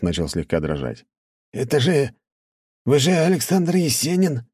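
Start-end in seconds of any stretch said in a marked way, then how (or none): 1.5-4.4 stammering fright. A narrator's reading. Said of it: "заикаясь".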